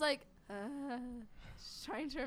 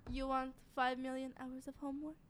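perfume commercial. Pretend. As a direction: breathe it like a perfume ad. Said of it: "sounds like a perfume commercial".

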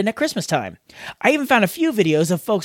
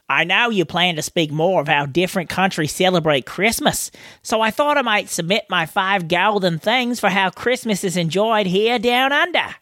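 put-on a light Australian accent reading a listener email. Host reading Chris's email in a light Australian accent. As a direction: read it in a mild Australian accent. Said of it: "read his entire email in that accent".

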